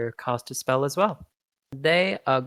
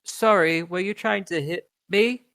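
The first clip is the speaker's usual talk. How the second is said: apologetic creature; 4 semitones higher than usual. Acted. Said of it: "And it says".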